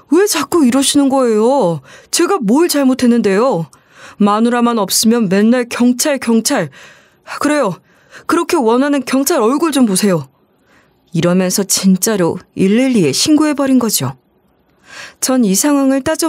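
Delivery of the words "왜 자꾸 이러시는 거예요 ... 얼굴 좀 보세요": aggrieved. Acted. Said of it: "억울해했어요".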